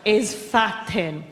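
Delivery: drawn-out, exasperated question to mum; baffled disbelief. Retold or imitated. Daughter asking mother what fat thin is, mock bafflement. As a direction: stretch it out, utterly baffled.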